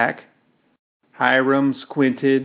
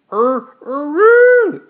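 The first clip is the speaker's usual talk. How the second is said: piercing, much higher and louder rooster shriek; rooster scream; 10 dB louder, slower than usual. Acted. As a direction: scream like a bird having its neck cut. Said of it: "it screamed".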